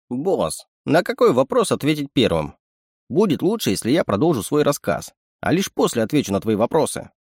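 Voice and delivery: a sly little animal sidekick; sly chittering raccoon. Acted. Raccoon speaks.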